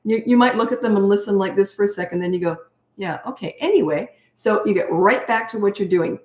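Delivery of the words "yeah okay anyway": unruffled parent, not reacting; calm, unbothered. Shown as a demonstration. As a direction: let it slide and move straight on. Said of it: "calm as anything".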